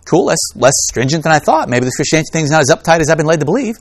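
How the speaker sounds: a hint of casual, pleasant surprise; relieved listener. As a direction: react aloud as a mildly relieved first-time hearer. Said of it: "they're, they're like".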